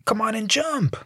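mocking heckler egging him on; heckler yelling. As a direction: taunt the jumper from the street. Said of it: "and someone yells".

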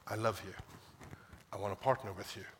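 low, soft, tender reassurance; quietly heartfelt, pitched low; tender fatherly voice. Acted. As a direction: speak gently as a loving father, with pauses. God speaks lovingly to his people.

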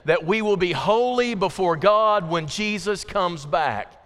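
measured, emphatic recitation for a group to join; leading group recitation. Real, not acted. Preacher has congregation say it together, leading group recitation. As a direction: recite it firmly so everyone can follow. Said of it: "Let's say it again".

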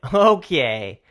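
loud, falling okay, acted out; angry okay. Barista to the man who shoved him, angry okay. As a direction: bite back a retold anger in one word. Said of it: "I was so fucking angry".

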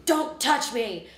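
the final warning, now really fed up. Retold or imitated. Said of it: "bitchy and snapping at everything".

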